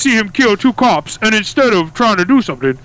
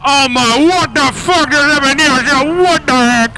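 higher-pitched, flabbergasted exclamation; shocked disbelief; 3 semitones higher than usual. Acted. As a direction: blurt it out in shock. Officer stunned by bike appearing.

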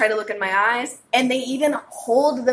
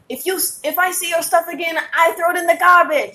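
imitated African accent; 7 semitones higher than usual. Night manager warning a gym member, in an African accent. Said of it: "that's an African accent".

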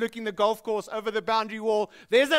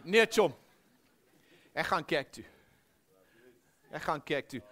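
Pretoria Afrikaans reply; 5 semitones lower than usual. Retold or imitated. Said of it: "In Pretoria, it goes something like this".

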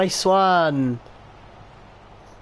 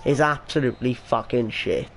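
swearing tirade; 2 semitones higher than usual. Real, not acted. Ranting about FIFA.

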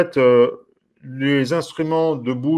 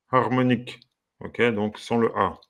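normal talking voice

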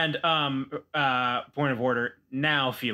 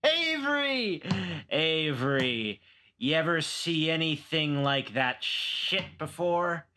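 put-on drunk Felix; 3 semitones higher than usual. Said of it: "he just goes".

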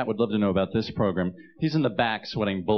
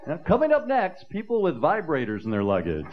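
TV announcer; 6 semitones higher than usual. Pretend. Mock TV announcer.

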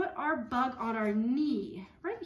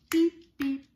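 loud beep; 4 semitones higher, 9 dB louder than usual. Acted. Loud horn beep in song.

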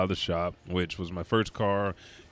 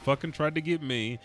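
mock fury; 4 semitones higher than usual. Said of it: "I said".

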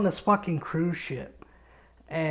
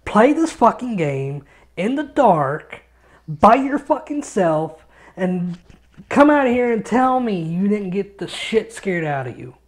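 indignant retort; 3 semitones higher, 5 dB louder than usual. Retold or imitated. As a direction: dare him to try it himself. Defending himself to laughing dad.

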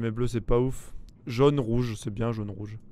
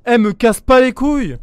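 annoyed snap; 8 semitones higher, 9 dB louder than usual. Real, not acted. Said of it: "Tu casses les couilles à crier".

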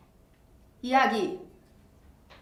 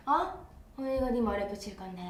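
imitating hair stylist. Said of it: "헤어쌤 말투가".

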